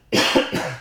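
coughing on a drink; choking cough mid-talk. Real, not acted.

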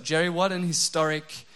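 telling Jerry this heatwave is historic, mock-grand and loud; mock-grand teasing. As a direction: tease him like it's history being made. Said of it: "I just thought".

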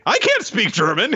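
high-pitched comic protest; mock panic. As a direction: yelp it like a flustered boy. Acting the boy's panicked objection.

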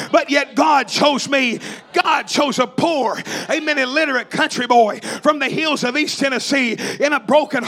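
shouted, rhythmic revival preaching; fiery holiness preacher in full flow; preaching at full force. Acted.

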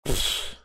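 short puff of air through the lips; mock scornful "pfft"; dismissive scoff. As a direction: blow it off like a sore loser. Imitates grudging opponent dismissing a shot.

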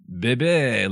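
bébé in clumsy French; dreadful French accent. Shown as a demonstration. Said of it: "my French accent is dreadful".

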